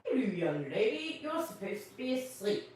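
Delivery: a lightly voiced chuckling Santa; jolly Santa.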